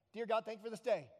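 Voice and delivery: perfunctory mock prayer; glossed-over prayer. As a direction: get the thanks out of the way. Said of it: "we gloss over".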